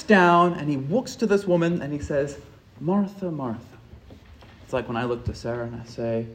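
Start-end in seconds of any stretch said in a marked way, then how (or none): 2.8-3.8 tender second take. Shown as a demonstration. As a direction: call Martha, Martha gently, with intimacy. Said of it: "Now, hear that one more time".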